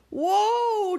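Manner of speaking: high, loud startled whoa; crying out. A narrator's reading. Dwayne alone on the bumpy ride, a high loud whoa. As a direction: yelp as you fly off the bump. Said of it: "Dwayne cried again".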